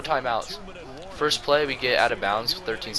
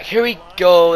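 Dak's cadence; 8 semitones higher, 11 dB louder, slower than usual. Retold or imitated. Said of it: "That's Dak's cadence".

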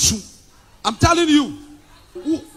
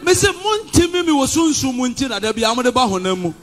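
fiery preaching. Real, not acted. Preacher boasting to his church, full-force preaching. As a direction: declaim it like a pulpit boast.

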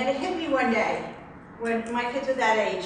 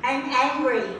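angry statement with more volume; a bit louder; 3 semitones higher, slower than usual. Shown as a demonstration. Client repeating after therapist, a bit louder. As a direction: push "I'm angry" out a little louder. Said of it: "A little bit louder".

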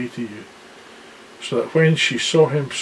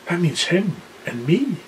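excited boast; 4 dB quieter than usual. Acted. Excited lion boasting to everyone.

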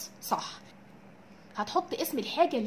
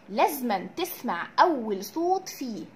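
slow stress; slower than usual. Shown as a demonstration. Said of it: "teacher stressing a key rule".

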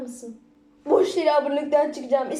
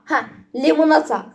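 laughing wordplay; 3 dB louder than usual. Real, not acted. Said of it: "Çok benziyor isimler".

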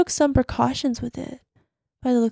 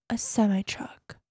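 whisper; 7 dB quieter than usual. Acted. Revealing wrecked car.

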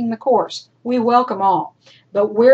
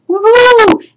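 high, loud whoop; celebratory cheer; 13 semitones higher, 11 dB louder than usual. Pretend. Teacher cheering students on to page two, excited whoop. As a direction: whoop like you just hit a milestone.

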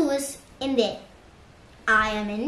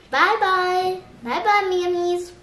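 high lilting farewell; sing-song goodbye; 6 semitones higher than usual. Shown as a demonstration. Saying bye to friends, sing-song.

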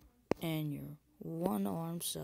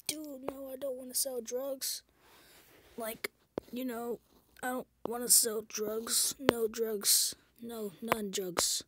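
high-pitched protest; 7 semitones higher than usual. Acted. Protesting to friend about drugs.

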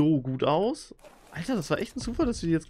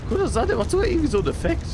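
excited; 11 semitones higher, 6 dB louder, faster than usual. Real, not acted. Excited at the effect.

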